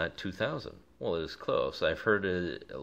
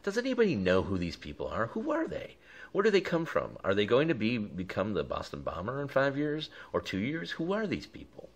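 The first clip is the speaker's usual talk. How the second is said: mock Trump; 5 semitones higher than usual. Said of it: "Trump goes back to".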